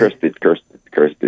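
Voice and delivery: "cursed" said slowly and clearly; pronounced carefully. Shown as a demonstration. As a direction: spell out "cursed" one sound at a time, not cursing. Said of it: "Not cursing".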